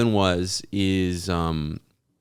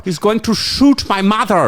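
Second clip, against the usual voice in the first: high, put-on fretting voice; mock panicked clerk; 10 semitones higher, 4 dB louder than usual. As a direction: fret about your mistake. Panicked clerk in Hitler's office.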